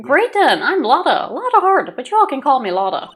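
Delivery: bright, lightly drawled introduction; cheerful southern NPC. Acted. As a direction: greet the strangers like a friendly local.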